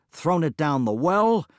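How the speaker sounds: high, loud exasperated listing. Acted. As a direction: shout "thrown it down the well" in frustration. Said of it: "blurted Mabon".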